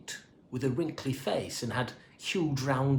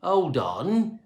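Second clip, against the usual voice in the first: louder, higher sudden stop; realising exclamation; 5 semitones higher, 4 dB louder than usual. A narrator's reading. Cleaner realising something, sudden exclamation. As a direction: catch the thought aloud. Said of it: "he exclaimed".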